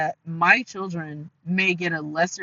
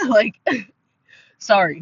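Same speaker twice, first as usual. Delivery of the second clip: laughing apology; 3 semitones higher, 7 dB louder than usual. Real, not acted. Awkward apology after a laugh.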